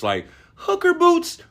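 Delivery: high, drawn-out mocking echo; incredulous mock. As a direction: repeat the phrase like it's absurd. Mocking a comedian's joke.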